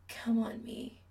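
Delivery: hoarse, whispered command; hoarse demand. Acted. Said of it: "Chris demands hoarsely".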